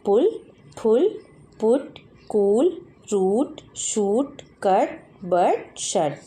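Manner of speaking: each word slow and loud, slowing further as it goes; read aloud loudly. Shown as a demonstration. Teacher modelling the say aloud words, loud and slow. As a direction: call the words out clearly for children to repeat. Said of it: "जोर से बोलना है".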